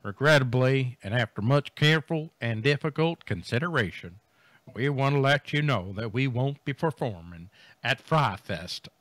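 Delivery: lightly voiced cowboy. Band's cancellation statement to festival fans, light cowboy voice. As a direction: read it out with a hint of cowboy. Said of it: "I'm gonna use a cowboy voice".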